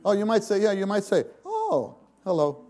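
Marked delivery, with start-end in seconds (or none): 1.4-2.6 a breezy hello; casual greeting oh. Shown as a demonstration. Preacher showing the wrong kind of oh, casual greeting. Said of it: "That's not this "oh".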